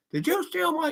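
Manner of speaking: high-pitched suspicious accusation; accusing. Pretend. Mock suspicious voice blaming people for lost keys. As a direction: point the finger, voice jumping up. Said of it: "you start to think like".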